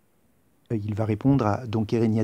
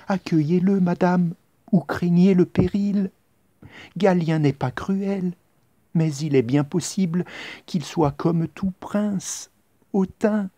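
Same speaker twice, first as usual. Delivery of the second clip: higher, louder urgent warning; warning confidante; 8 semitones higher, 3 dB louder than usual. Acted. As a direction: press the queen to give in. Confidante warns the queen.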